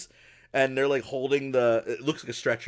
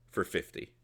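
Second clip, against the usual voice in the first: hushed, low aside; whispered bet; 6 semitones lower, 9 dB quieter than usual. Acted. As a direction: whisper the price conspiratorially. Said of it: "He goes".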